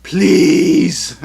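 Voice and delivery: exasperated plea. Real, not acted. Pleading for punctuation.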